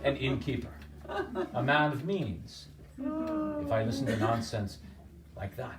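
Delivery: laughing off the dream; scoffing laugh. Acted. Innkeeper laughs off the peddler's dream, scoffing. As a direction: scoff through laughter at nonsense.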